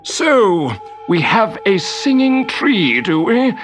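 high, drawn-out grumpy sarcasm; grumbling wizard. A narrator's reading. Wizard discovers the singing tree, grumbling high and indignant. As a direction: grumble pointedly, as if catching the culprit. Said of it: "he grumbled to himself".

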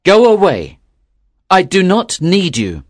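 loud, impatient dismissal; crying out. A narrator's reading. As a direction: cry out to drive the soul away. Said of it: "cried the young fisherman".

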